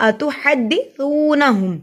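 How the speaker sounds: "اتحدثونہم" slowly, soft th without whistle, long uu; soft tha. Shown as a demonstration. Teacher warning against whistling, "اتحدثونہم" with soft th. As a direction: keep the "ث" of "اتحدثونہم" soft, tongue-tip light. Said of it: "تا کو نرمی سے پڑھیں گے".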